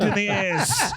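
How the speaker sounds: high, laughing Long Island guy; brash Long Island accent impression. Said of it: "That's our Long Island impression".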